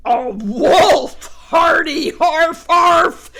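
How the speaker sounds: loud, high bark-laughter. Acted. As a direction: laugh like a dog. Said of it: "laughed Picket".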